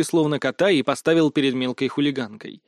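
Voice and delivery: usual speaking voice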